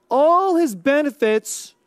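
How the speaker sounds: long, emphasized "all" to open the phrase; stress on "all". Shown as a demonstration. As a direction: lean slowly on the word "all". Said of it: "I wanna emphasize the word all".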